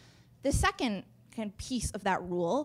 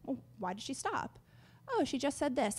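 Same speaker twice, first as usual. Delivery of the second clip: audience inner voice; 3 semitones higher, 10 dB quieter than usual. Pretend. Imagined audience thoughts.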